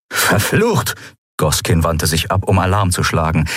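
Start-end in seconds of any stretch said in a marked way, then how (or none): 0.1-0.9 cursing. A narrator's reading. Character curses.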